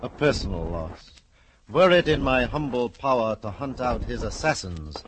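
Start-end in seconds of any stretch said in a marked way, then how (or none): 1.7-5.0 mock grandiose.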